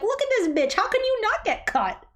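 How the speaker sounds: breathy high whisper of disbelief; whispered aside, mock shocked. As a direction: hiss it out, scandalized. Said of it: "I'm like".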